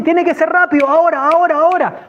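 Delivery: high, insistent cry; urgent shout. Retold or imitated. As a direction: cut in and hurry them along. Urging slow people to hurry.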